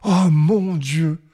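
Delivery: put-on a mild, stunned old man's exclamation; stunned cry. The farmer stunned that his goat wants to leave, mild cry. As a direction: gasp it out, dismayed. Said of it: "cria monsieur Seguin stupéfié".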